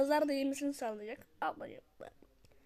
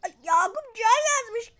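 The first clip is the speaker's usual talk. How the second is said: mock crying; 9 semitones higher, 9 dB louder, much slower than usual. Mock crying over comment.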